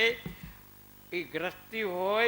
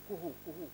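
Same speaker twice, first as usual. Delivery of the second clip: soft bird call; 2 semitones lower, 11 dB quieter than usual. Retold or imitated. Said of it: "કુહુ, કુહુ કરે".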